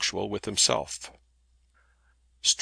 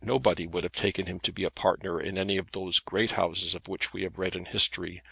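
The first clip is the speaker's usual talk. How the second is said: ordinary delivery, nothing marked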